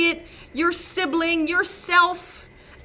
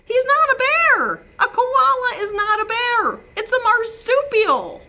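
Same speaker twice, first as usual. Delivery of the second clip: emphatic; 11 semitones higher, 4 dB louder than usual. Real, not acted. Reader insists loudly.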